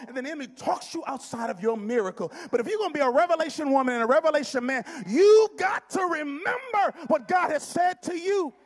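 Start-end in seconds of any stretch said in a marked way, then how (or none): 2.5-8.5 full-force shouted exhortation, pitched high; impassioned preaching shout. Real, not acted. Preacher urging believers to remember God's word, impassioned shout.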